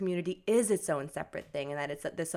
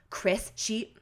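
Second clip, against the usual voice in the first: lightly put-on Boston mom; accidental Boston accent; 4 semitones higher than usual. Quoting mom talking to grandma Chris, slight Boston accent. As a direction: imitate a mom gushing, with a hint of Boston. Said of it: "I just gave her a Boston accent".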